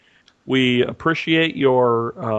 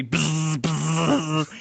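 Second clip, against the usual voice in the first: imitated electric buzz. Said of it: "you hear the sound of electricity".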